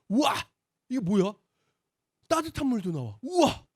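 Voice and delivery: high, loud wide-eyed wonder; amazed kid. Retold or imitated. Boy amazed at the indoor bathroom, high and excited. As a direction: gasp like a child seeing his first indoor bathroom. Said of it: "이런 생각을 했었어요".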